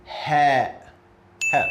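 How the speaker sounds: 'Ha' like the H in house; Arabic letter Ha. Shown as a demonstration. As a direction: breathe a plain English H in 'Ha'. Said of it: "this ha sounds like house".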